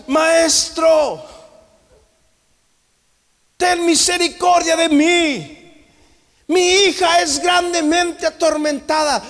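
acted high, drawn-out cry for mercy; preacher voicing a woman's loud appeal; desperate shouted plea. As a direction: cry out like a mother begging for help. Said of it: "la mujer gritaba y le decía".

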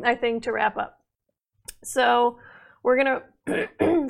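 hoarse, strained voice; raspy, voice giving out, throat clearing; losing voice. Real, not acted. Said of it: "I'm losing my voice here".

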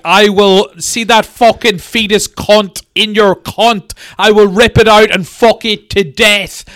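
hammed-up abusive boss rant; mock abusive rant. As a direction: spit out the insults. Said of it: "I want something like".

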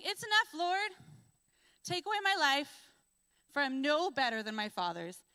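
high, loud anguished pleading; despairing plea. Acted. Elijah begging God under the broom tree, anguished and high. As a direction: cry out to the Lord in despair.

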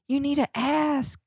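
high, slow prissy scold; mocking lady's voice. S0 mimics the lady telling him to ask, high and slow. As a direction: drag it out like a snooty clerk.

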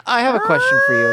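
very high teasing voice; squeaky high voice. Pretend. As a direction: pitch it way up to tease. Teasing Ian, laughing.

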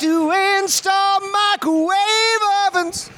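high, steady shouted line. Acted. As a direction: holler it in a sing-song. Mock announcer shout.

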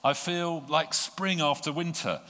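high, loud, ecstatic outpouring; overflowing joy. Acted. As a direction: pour it out like spring after winter. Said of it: "And laughing".

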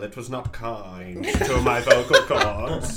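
spooky ghost voice. Acted. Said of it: "Why are you doing this voice".

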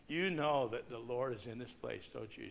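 softly and gently, a touch of tenderness; tenderly. Retold or imitated. Evangelist gently asking the crying woman, soft and tender. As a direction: ask it like a kind pastor. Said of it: "he said to her tenderly".

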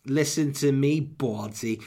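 New York mob wife snapping; mafioso wife. Acted. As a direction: bark at him like a mafia wife. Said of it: "sound like a mafioso wife when I say Baldy".

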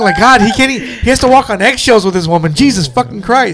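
exasperated rant. Retold or imitated. Woman fed up with her boyfriend, exasperated. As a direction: rant like she's fed up with him. Retelling angry girlfriend in movie.

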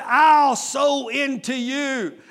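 emphatic proclamation. Acted. Preacher voicing God's promise.

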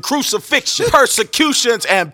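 preaching, building in force; rising impassioned oratory. Acted. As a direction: climb with each pair of words. Alliterative list building in fervor.

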